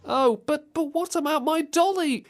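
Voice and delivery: put-on high, pleading child voice; put-on little-girl plea. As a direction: whine up high for the dolly. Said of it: "this little girl".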